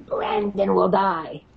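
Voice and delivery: slow, drawn-out growly spirit voice. Retold or imitated. Spirit threatens her son over the phone, slow and growly. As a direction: growl it out slowly like a menacing entity. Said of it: "in this growly voice".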